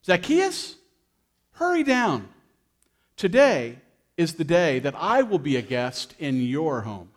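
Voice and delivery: a light touch of Jesus calling up; calling up the tree. Acted. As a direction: call him down from the tree, lightly voiced. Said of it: "he looked up and he said".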